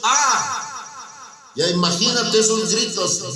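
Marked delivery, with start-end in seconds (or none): 0.0-0.7 demon scream. Acted. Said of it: "empezó a gritar diciendo".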